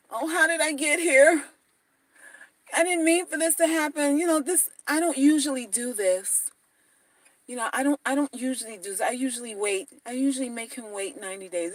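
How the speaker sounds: quietly innocent, lightly voiced coy woman; coy excuses. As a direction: play demure, hushed and sweet. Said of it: "This is what you tell him".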